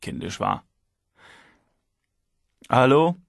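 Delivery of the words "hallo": businesslike. A narrator's reading. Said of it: "mit sehr sachlicher Stimme".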